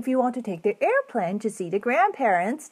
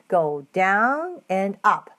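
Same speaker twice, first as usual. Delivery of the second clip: slow demo; slower than usual. Shown as a demonstration. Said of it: "move your head".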